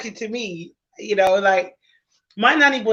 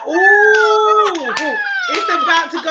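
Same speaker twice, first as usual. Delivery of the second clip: high mock ooh; nanny boys warning each other, high; kids reacting; 10 semitones higher, 4 dB louder, slower than usual. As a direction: tease like kids sensing trouble. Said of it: "they're like".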